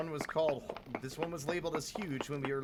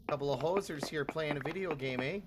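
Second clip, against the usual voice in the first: lightly voiced Canadian hoser; a hint of a goofy Canadian accent, eh on the ends; silly Canadian accent. Joking with gaming friends, in mild mock Canadian accent. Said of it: "I just did this silly voice".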